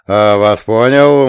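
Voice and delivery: loud, slow, manly reply; drawn-out, manful acknowledgement. A narrator's reading. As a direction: answer in a firm hero's voice. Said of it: "мужественным голосом ответил почтарь".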